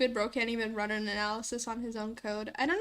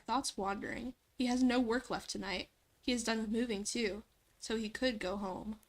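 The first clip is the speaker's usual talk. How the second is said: hushed nature documentary. Acted. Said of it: "a narrator voice?".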